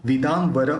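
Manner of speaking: विदाम्बर with the dot sounded as n before व, lips not closing; विदाम्बर, nasal as n, lips apart; anusvara as n. Shown as a demonstration. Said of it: "दोनों होंठ मिलेंगे नहीं".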